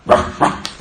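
mock dog bark. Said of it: "the barking dog in their head says".

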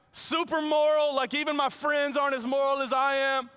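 high, loud, self-satisfied bragging; boastful rich young man. Pretend. Preacher voicing the rich young man bragging to Jesus, high and loud. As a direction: puff up like a smug rule-keeper wanting praise.

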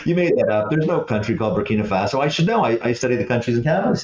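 mock know-it-all dismissing a cabbie; lightly hammed-up smug student; collegiate arrogance. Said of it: "in my best collegiate, arrogant, uh, tone".

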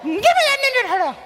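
put-on very high whiny child voice; whiny kid. Boy demanding the toy, high whiny version. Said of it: "Except it was more like".

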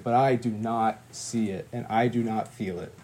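low, soft admission of doubt; subdued confession. Retold or imitated. Confessing doubt to God, subdued. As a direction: let it sink low and quiet.

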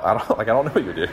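laughing through the words; half laughing, unsure what to say. Real, not acted. Preacher laughing at his own joke to students.

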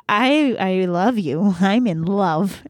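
slow, drawn-out confession; mock love declaration. Suitor confessing love to her in person, slow mock earnestness. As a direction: stretch each word in mock devotion.

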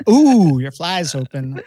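slow, put-on Southern accent. Onlooker telling a man about his fly, Southern accent. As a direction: draw it out in a teasing Southern twang. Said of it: "I'm doing the Southern accent thing".

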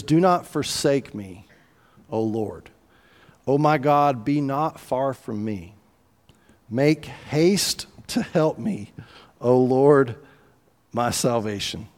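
slow, understated plea to God; crying out in prayer. Retold or imitated. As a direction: read it as a measured prayer, pausing between phrases. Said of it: "He's crying out".

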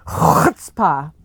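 chutzpah said slowly and deliberately; careful chutzpah. Shown as a demonstration. Host relishing the word chutzpah for listeners, drawn out slowly. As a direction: stretch out chutzpah, savoring each sound. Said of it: "Oh, I killed it on that one".

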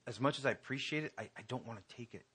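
quick, quiet humble decline; hesitant refusal. Retold or imitated. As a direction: mumble it, embarrassed. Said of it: "and he says".

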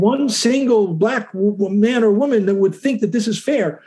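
pointed courtroom argument at a controlled volume; emphatic, not shouting. Shown as a demonstration. Lawyer replaying his argument to the court, emphatic but not shouting. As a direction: make the point firmly without raising your voice. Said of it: "in this kind of tone".

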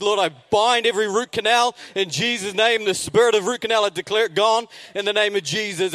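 declaring prayer, building in intensity; mock fervent prayer. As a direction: pray like a charismatic preacher, gathering force. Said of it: "we prayed".

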